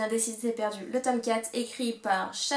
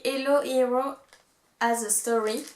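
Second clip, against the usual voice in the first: English words read with a strong French accent, every syllable even; 6 dB louder than usual. Shown as a demonstration. Reading an English badge slogan to viewers, in a French accent. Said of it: "désolée pour mon accent".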